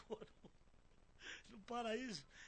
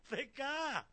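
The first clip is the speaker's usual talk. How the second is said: higher, louder imitation of people calling; retold yelling; 5 semitones higher, 6 dB louder than usual. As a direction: call out as the others shouted after you. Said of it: "os outros me gritando".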